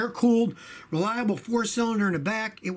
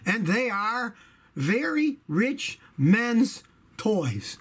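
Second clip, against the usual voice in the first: laughing through words; 2 semitones higher, much slower than usual. Real, not acted. Chuckling over rich men's toys.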